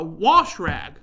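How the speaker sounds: Ohio "wash" sometimes as "warsh", grandparents' way; Ohio grandparents' accent. Retold or imitated. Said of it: "my grandparents, they'll say".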